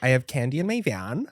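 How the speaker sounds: creepy pickup line read. Pretend. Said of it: "Just the way you read it, I love it".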